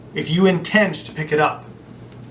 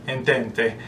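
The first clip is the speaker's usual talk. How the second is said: Italian accent; 4 semitones lower than usual. Shown as a demonstration. Speaker slipping into an Italian accent on an Old French word. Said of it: "that's an Italian accent".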